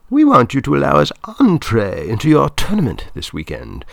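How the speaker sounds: high, loud woman's voice; Claudia, making a request. A narrator's reading. Film woman asking Mister Lopat for access, high and loud. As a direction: pitch the request high and project it.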